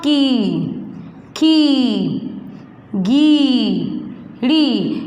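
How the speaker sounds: each syllable with a long ee, spaced apart; syllable drill. Shown as a demonstration. Teacher leads pupils through syllables, drawn out. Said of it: "मेरे साथ साथ उच्चारण करो इसका".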